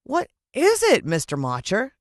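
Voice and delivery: put-on a kid robbed of a goal; disappointed boy protesting to the referee. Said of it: "I said, really disappointed".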